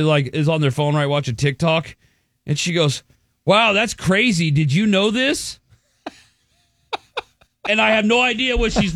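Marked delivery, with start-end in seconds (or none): 3.4-5.6 high, drawn-out mock amazement; mock weird-talking girlfriend. Girlfriend on her phone watching TikTok, mock-amazed. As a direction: imitate an annoying girlfriend, slow and high-pitched. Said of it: "talks weird".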